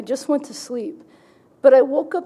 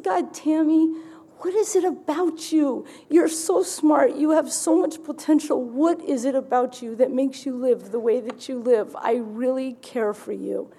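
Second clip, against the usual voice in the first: gentle neighbor. Retold or imitated. Neighbor Rick gently pleading with her, lightly voiced tender. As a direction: lightly voice his tender concern.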